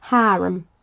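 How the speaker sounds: Hiram said as "HAIR-um", short first vowel; her way of saying Hiram. Shown as a demonstration. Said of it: "the way I say it".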